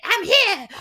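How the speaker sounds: piping high mock voice; squeaky mock reply. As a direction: pop up high like a tiny voice. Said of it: "Somebody's like".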